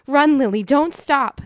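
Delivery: high, loud urging cry; urgent calling. A narrator's reading. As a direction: drive a little sister onward. Kate urges fleeing sister on.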